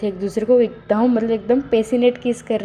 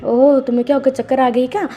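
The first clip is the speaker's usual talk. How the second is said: higher, louder teasing surprise; mock concern; 4 semitones higher, 3 dB louder than usual. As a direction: tease him as if worried. Wangji mocks Wing's dizziness.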